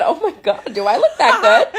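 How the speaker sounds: giggling through it, pitch up; delighted with herself, laughing. Retold or imitated. Telling her swim story, she laughs at herself. Giddy self-admiration in the pool.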